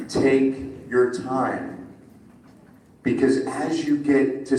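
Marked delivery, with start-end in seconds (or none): 0.1-1.9 slower repeat. Shown as a demonstration.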